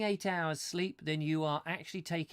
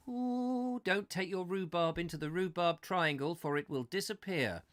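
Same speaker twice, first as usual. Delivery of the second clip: mock spooky warning; 2 semitones higher than usual. Spooky warning about Rhubarb Triangle.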